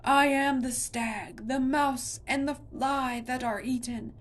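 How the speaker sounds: still roaring. A narrator's reading. Monster roars its ancient nature at Connor. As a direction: chant it like a mountain speaking. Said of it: "still roaring".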